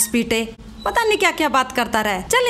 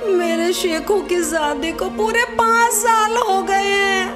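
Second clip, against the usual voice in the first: tearful prayer; 3 semitones higher than usual. Acted. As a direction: plead as if weeping, stretching the words. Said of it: "क्या अम्मी रो रही हो". (रोते हुए दुआ)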